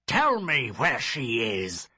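loud insistent order; angry demand. Acted. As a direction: repeat the order harder. Father repeats demand.

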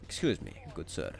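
lightly put-on posh English politeness; posh English intonation. Shown as a demonstration. Gamer showing proper manners, posh English intonation. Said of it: "it's in the intonation".

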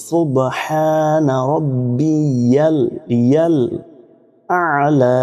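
সুবহানা রব্বিয়াল আলা slow, ain joined to আলা; recite along. Shown as a demonstration. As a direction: say it slowly with me. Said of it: "আমার সাথে একবার বলুন". (আমার সাথে ধীরে বলুন)

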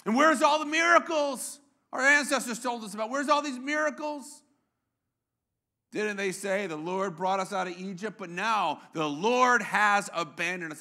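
mildly aggrieved challenge; hammed-up, understated complaint; a little salty. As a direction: question it like someone feeling let down. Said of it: "gets a little salty".

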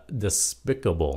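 DESPICABLE said as de-SPIC-able; stress on second syllable. Shown as a demonstration. Teacher shows what dictionaries accept, de-SPIC-able. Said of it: "nhấn âm hai".

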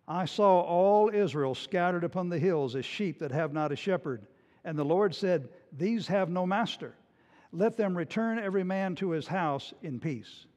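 straighten up and say it gravely; the prophet drops the act and speaks soberly to the king; real serious. Acted. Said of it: "he got real serious".

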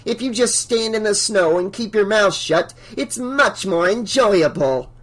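high-pitched, condescending scolding; smug Missus Deagle. A narrator's reading. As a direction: lecture the group with satisfied disdain.

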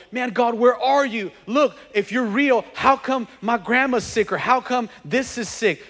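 mildly exasperated, demanding answers; indignant questioning. Acted. Believer with a sick loved one challenges God, indignant questioning.

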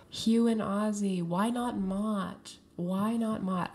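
drawn-out, dismayed complaint; dismayed pleading; pleading protest. Real, not acted. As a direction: plead against the verdict, stretching the words. Protests at the game's bottom placements.

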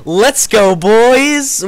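high, loud hype shout; excited cheer. Real, not acted. Cheering rising viewer count.

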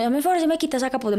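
high, fast mock nun's order; imitating a scolding nun. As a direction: snap it out like the strict nun, quick and high. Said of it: "Me gritó". (imitando a la monja regañona, aguda y rápida)

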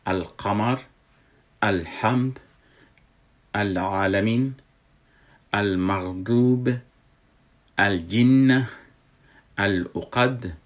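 القمر, الحمد with the L of the article clearly sounded; Arabic example words like الجنة read out with an audible L after the A; lam pronounced. Shown as a demonstration. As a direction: say each word separately, sounding the "al-" in full, as in الفلق. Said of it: "الف لامش تلفظ شد".

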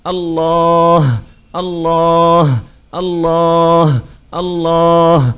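drawn-out chanting الله, mimicking careless dhikr; mock wrong dhikr. Shown as a demonstration. Preacher imitates people's wrong dhikr, slow drawn chant. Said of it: "بعض الناس على زعمهم بيقعدوا بدهم يذكروا".

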